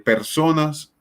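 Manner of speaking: "personas" drawn out slowly, "so" on the next-to-last syllable leaned on; slow stress demo. Shown as a demonstration. Teacher modelling where "personas" takes its stress, slow and deliberate. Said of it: "la fuerza tónica la hacemos en, en la penúltima sílaba".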